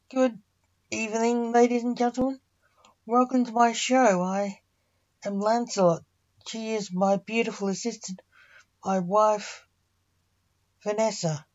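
a nervous magician greeting his audience; nervous showman announcing his act to the audience. Acted. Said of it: "said Junior nervously".

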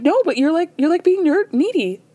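imitating Larsa being bluntly rude; mock catty friend. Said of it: "And Larsa's like".

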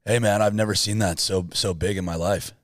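low, laid-back character voice; put-on voice. Host feeds a voice to mimic, put-on voice. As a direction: play a drawn-down, easygoing dude. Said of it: "Full on mimic everything you do".

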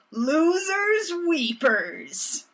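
high, drawn-out singsong gloat; mock taunt. Host voices the villain finishing the banker's saying, taunting. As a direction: stretch it slowly into a taunting jeer.

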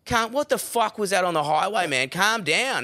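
high, incredulous telling-off; indignant demand. Retold or imitated. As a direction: challenge him, still rattled. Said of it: "retold confronting mate".

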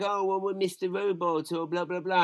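a hint of a smug fan; mocking know-it-alls. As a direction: parrot the people pushing shows. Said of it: "then people are like".

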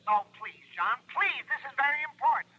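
fretful insurance man pleading over the phone; anxious pleading. Acted. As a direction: beg him anxiously to listen. Harry pleading urgently.

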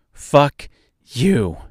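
loud furious yell at him; angry shout. Acted. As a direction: spit it at him in rage. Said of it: "She screamed and pushed".

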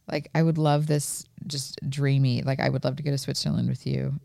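soft, wistful longing; dreamy. Real, not acted. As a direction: say it softly like a daydream. Dreamy wish to partner.

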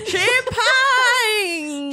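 high, hammed-up French champagne; French accent. Shown as a demonstration. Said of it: "listen to my French accent".

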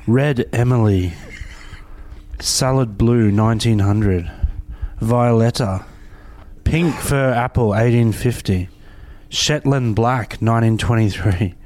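lightly posh, plummy reading. Acted. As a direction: read the names like a posh toff. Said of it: "this is my posh spud voice".

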